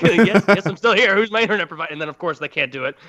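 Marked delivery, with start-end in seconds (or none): 0.0-1.9 exasperated. Retold or imitated. Exasperated reply to scam caller.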